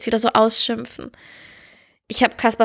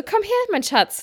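Mutterstimme zum Kind; 10 semitones higher than usual. Retold or imitated.

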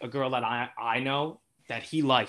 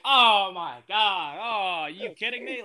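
mock disbelief; 6 semitones higher, 3 dB louder, slower than usual. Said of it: "He's like".

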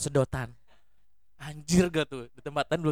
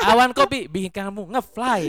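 ad tagline. Acted. Inventing a coffee tagline.

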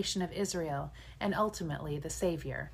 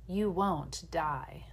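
hissing serpent dragon; much slower than usual. Acted. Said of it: "the serpent hissed".

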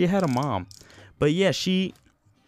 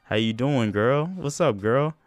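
smooth flirty opener. Retold or imitated. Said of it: "And I wasn't even like that".

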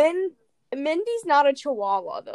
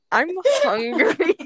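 mocking whine; 7 semitones higher, 6 dB louder, slower than usual. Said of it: "the thing you felt was important".

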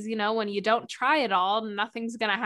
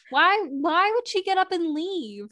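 higher, louder sarcastic defense of police; sarcastic mock cop; 7 semitones higher, 3 dB louder than usual. Mocking her friend's doubt, sarcastic cop voice. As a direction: play the dismissive cop, exaggerated.

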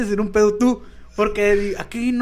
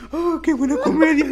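slow, higher, laughing through the words; laughing quote; 7 semitones higher than usual. Retold or imitated. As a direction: savour the joke while laughing. Friend laughing after teacher left.

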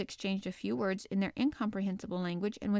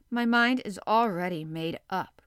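retort; 5 dB louder than usual. Acted. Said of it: "retorted Ned".

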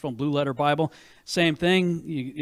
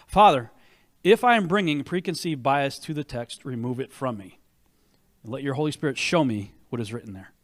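earnest prayer; 2 semitones lower than usual. Retold or imitated. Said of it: "to pray the same prayer".

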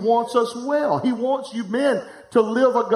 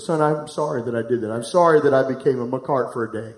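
low, sincere apology; retold apology; 7 semitones lower than usual. Father apologises to his son after school, low retold apology. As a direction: lower the voice and own up to it.

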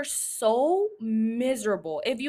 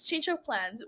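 soft afterthought; 6 dB quieter than usual. Shown as a demonstration.

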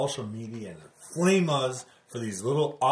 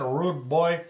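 put-on playful Jamaican accent, higher and louder; 5 semitones higher, 5 dB louder, slower than usual. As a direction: put on a Jamaican accent, rude boy style. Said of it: "I'm talking in my Jamaican accent".

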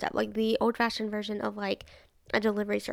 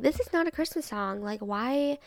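irritated mom; 2 semitones higher than usual. Retold or imitated. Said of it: "she was just like".

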